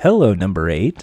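very low, seductive, sultry, sexy drawl. Describing how the producer's voice sounds after post-production, imitating a sexy voice. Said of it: "You're hearing this sexy voice go".

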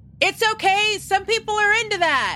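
casual, high, light yell. Adelaide reassures the others below her, yelling up. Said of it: "Adelaide will just kind of yell up".

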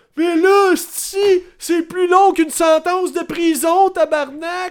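put-on frantic panicky cry, very high, loud. The speaker mocks his audience for panicking over a game's length, in a mock-panicked outburst. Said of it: "Ma gang de sti de paniqueux".

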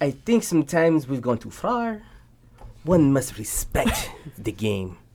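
fake, snooty, fancy French accent. Reading a quote aloud after being told to, in a foo-foo french voice. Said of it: "you gotta say it in a foo-foo french voice".

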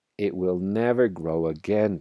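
ordinary delivery, nothing marked

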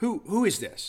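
lofty, contemptuous voice. Reenacting asking about a record she put on, retold haughty, derisive tone. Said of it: "with that same haughty tone of derision".

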